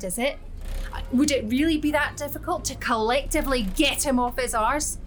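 ranting at the whole bus; wild unhinged ranting. Acted. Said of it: "the deafening tone of a mad Scottish bitch, voiced like a foghorn".

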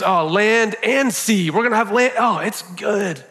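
high, delighted and building, savouring each new creation; a beaming creator calling out each wonder with a smile; joyful God voice. Acted. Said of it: "he keeps working and he goes".

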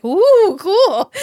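high, loud comic whoop; mock crowd cheer. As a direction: cheer like an easily impressed crowd. Acting out an impressed crowd.

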